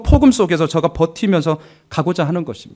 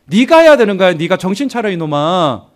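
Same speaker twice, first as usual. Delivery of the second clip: scolding devil; 4 dB louder than usual. Acted. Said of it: "이렇게 유혹을 합니다".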